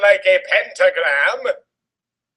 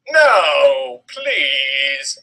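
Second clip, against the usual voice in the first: begging; 2 semitones lower than usual. Acted. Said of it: "I begged".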